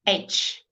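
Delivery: H as a voiceless breath on glass; teacher models the h sound; breathy h. Shown as a demonstration. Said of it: "like you're breathing onto a glass".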